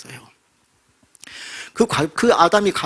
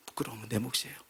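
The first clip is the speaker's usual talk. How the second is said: much softer repeat of 부끄러움은 내 몫이에요; soft echo; 4 semitones lower, 15 dB quieter, faster than usual. Acted. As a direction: let it sink in, barely voiced. Quiet repeat for emphasis.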